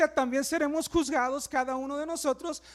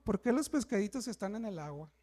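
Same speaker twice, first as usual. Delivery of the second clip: mock woman complaining. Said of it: "la mujer viendo así como que".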